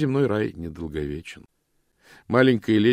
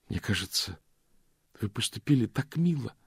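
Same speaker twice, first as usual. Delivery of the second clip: higher, eager lady's voice; lightly voiced ardent exclamation; fervent; 3 semitones higher, 3 dB quieter than usual. A narrator's reading. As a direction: gush with warmth. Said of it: "с жаром воскликнула маленькая леди".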